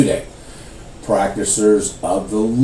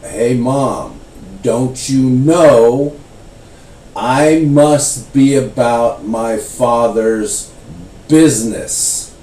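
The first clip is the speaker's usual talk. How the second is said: slow, deliberate, weighty delivery; poignant line; slower than usual. Retold or imitated. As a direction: let each word land slowly. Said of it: "he says this one poignant thing".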